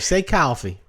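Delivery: put-on a Southern girl's coaxing request; Southern accent. Southern girlfriend asking to hear his accent, light Southern accent. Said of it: "girl from the South".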